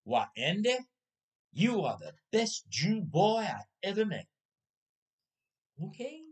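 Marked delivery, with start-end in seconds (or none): 0.0-4.3 imitated Southern redneck accent; Georgia redneck accent. Georgia redneck to a new coworker at goodbye, Southern accent. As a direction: do a rough attempt at a Georgia accent. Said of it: "his accent that well".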